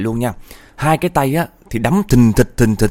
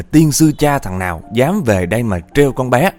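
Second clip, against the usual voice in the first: raised, indignant tirade; acted angry cursing; 2 semitones higher than usual. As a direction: berate spirits on the neighborhood's behalf. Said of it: "lần này thì bà chửi dữ hơn lần trước".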